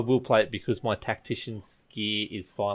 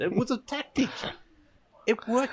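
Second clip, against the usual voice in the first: mock defensive; 12 semitones higher than usual. Defending his blunder jokingly.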